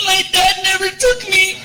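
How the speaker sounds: put-on high, slow, small boy's voice; boy admitting his dad never took him; sad little kid. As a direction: say it like a boy who never got to go.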